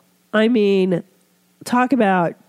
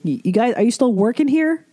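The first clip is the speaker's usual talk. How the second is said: upbeat waiter; 6 semitones higher, faster than usual. Retold or imitated. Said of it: "when the waiter would be like".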